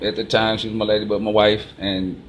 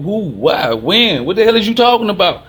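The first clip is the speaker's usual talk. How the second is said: climbing much higher and louder in shock; retold disbelief; 9 semitones higher, 5 dB louder than usual. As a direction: voice shooting up in startled disbelief. Retold shock at stranger's confession.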